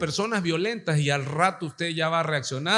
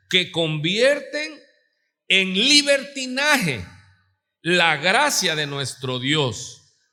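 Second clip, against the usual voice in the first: solemn scripture reading; 3 semitones higher, slower than usual. Acted. Reads scripture with emphasis.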